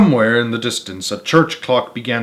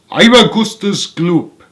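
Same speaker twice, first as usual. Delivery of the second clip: put-on slow boastful boy; 6 semitones higher, 4 dB louder, slower than usual. Fat boy voiced in story.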